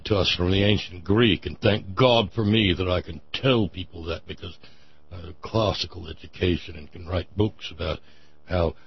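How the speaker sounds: talking through clenched teeth; lightly voiced snooty rich man; clenched-teeth snob voice. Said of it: "So I think that voice won".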